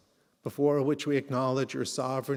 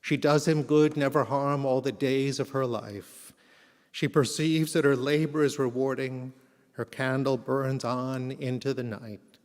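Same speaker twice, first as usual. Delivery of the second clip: solemn. Acted. Reads Eshet Chayil at memorial.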